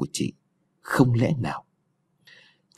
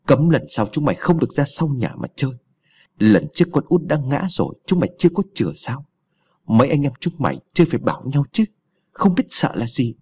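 higher, hurried scolding; 4 semitones higher than usual. Acted. Grandmother scolding the children after the drowning, brisk scolding. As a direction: rap out a grandmother's telling-off. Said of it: "mẹ chị vừa chửi".

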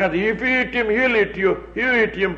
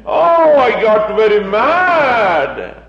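mock proud anger; 5 dB louder, much slower than usual. Preacher mocks people boasting of their anger, slow and proud. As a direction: imitate someone bragging about losing their temper. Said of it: "they are very proud to get mad".

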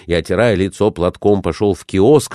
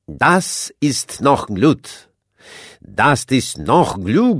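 slow, higher German-speaking prince voice; 6 semitones higher, much slower than usual. A narrator's reading. A German prince cheers the fallen man, slow and higher. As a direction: encourage him slowly in German.

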